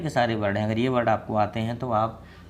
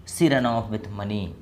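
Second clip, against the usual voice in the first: very slow English; slow model sentence; much slower than usual. Shown as a demonstration. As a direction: say it slowly, word by word. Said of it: "क्या बोलेंगे".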